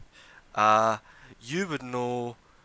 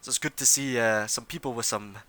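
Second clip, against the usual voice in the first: noble's flattery. Acted. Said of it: "He says".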